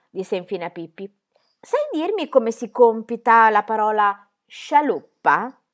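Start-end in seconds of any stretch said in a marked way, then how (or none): 1.6-5.6 slow teacher question. Acted. Teacher sets spelling test.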